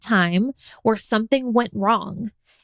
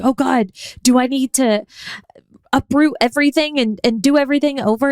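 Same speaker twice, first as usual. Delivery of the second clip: mock panic; 4 semitones higher, 3 dB louder than usual. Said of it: "Calm down".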